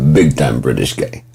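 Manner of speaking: low imitation of a New England accent; thick New England accent. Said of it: "this thick ass New England accent".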